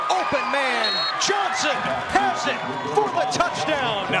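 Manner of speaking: touchdown call. Real, not acted.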